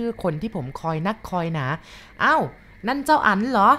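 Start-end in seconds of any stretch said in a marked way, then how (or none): 2.0-3.7 high, loud, drawn-out call of surprise; grandma calling out. Acted. Grandma calls out loudly to the boy at the door. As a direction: call across the kitchen, slow and high. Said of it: "ตะโกนทักเรียก".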